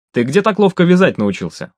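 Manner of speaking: high-pitched puzzled question; curious, with a lifted pitch; surprised. A narrator's reading. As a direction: ask in mild amazement. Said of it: "удивился Микола".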